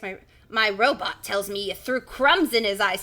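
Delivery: lightly voiced old uncle; Uncle Jack. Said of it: "that's Uncle Jack".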